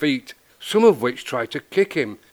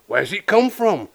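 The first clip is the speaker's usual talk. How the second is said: higher-pitched shouted question; mild shout; 7 semitones higher than usual. A narrator's reading. Party guest asking about the cat, mild shout. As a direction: call it out high without full volume. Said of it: "shouted one".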